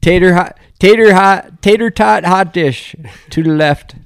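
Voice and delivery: high, loud Minnesota hotdish voice; Fargo accent. Pretend. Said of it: "Fargo accent".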